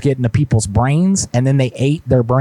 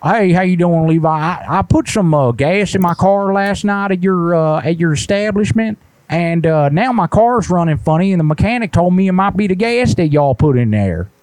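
higher, indignant put-on caller voice; prank caller voice; 6 semitones higher than usual. Prank caller to the gas station, put-on higher indignant voice. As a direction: play a fussy customer who got hung up on.

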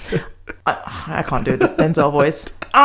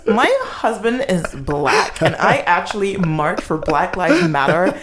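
mock Karen; 5 semitones higher, slower than usual. Mocking Ellen Pompeo's defence.

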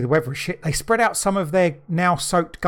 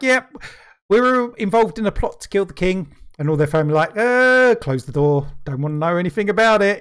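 voiced plotters and family; 3 semitones higher, 3 dB louder than usual.

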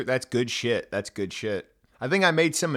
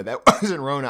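laughing; 5 dB louder than usual. Real, not acted. Repeats the line, then laughs.

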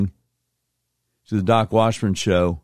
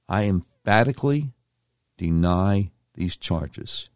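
slow mock quote; 3 dB quieter, slower than usual. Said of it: "repeats quote slowly for effect".

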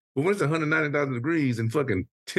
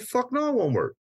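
retold angry retort; 12 semitones higher than usual. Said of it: "I said".

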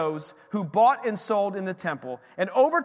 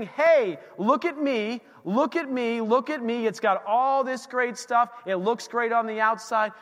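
a bright, higher, boastful look at me; boastful show-off; 4 semitones higher than usual. Acted. A showy temple preening before Jesus, lightly hammed-up. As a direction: show off like a proud temple begging for attention.

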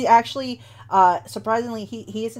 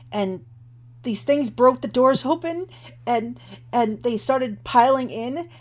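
put-on lightly raised voice of a rattled boy; a hint of a frightened acolyte retelling the attack; shaken young acolyte; 3 semitones higher than usual. GM voices Rufio telling his story.

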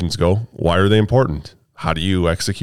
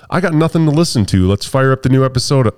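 higher, keen voice of a fan; imitated eager listener; 5 semitones higher than usual. Imagined farmer in a combine, mock eagerness. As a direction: play a listener keen for something to hear.

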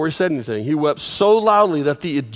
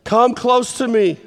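a slightly higher, insistent call; higher, more urgent; 5 semitones higher, 3 dB louder than usual. Shown as a demonstration. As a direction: call them closer with feeling. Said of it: "they're going about this fast".

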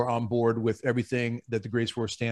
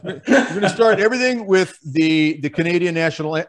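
laughing slip-up; 3 semitones higher, 4 dB louder than usual. Real, not acted. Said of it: "I'm sorry".

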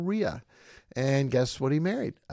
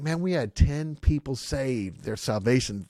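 excited pastor; 4 semitones higher, 5 dB louder, slower than usual. Retold or imitated. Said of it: "They were excited about that".

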